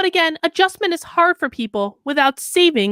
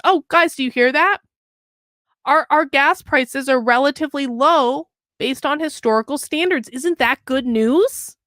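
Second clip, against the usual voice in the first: sarcastic. Acted. Sarcasm at article's claim.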